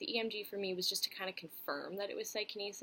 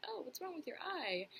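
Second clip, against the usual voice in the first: high-pitched mimicry of a nosy question; mock the questioner in a higher voice; imitating tactless dinkus; 9 semitones higher than usual. Some dinkus asking about the eye, high-pitched mock imitation. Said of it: "dinkus who's like".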